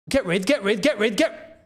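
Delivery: rapid repeated urgent yell; panicked shout. Real, not acted. Fan screaming for a clearance, urgent repeated yell.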